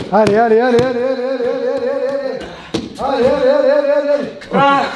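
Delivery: quick run of allez; rapid-fire urging. Real, not acted. Coach driving fighter through the drill, rapid-fire urging. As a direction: urge him on without a gap.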